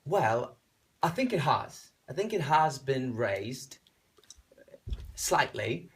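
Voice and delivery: lightly put-on British accent; measured answer in mock British. Singer answering the host's question on request, British accent. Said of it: "in a British accent".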